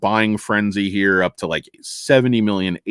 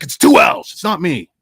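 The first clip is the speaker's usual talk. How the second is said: mock correction; 5 semitones higher, 4 dB louder than usual. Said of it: "He's like".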